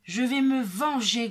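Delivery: loud, menacing woodcutter; thundering growl. A narrator's reading. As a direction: rumble out a vow of revenge, loudly. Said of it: "gronde le bûcheron". (grondement fort et menaçant)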